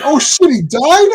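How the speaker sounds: mock stunned reaction, pitch leaping up; retold shock. Acted shock at E.T. dying.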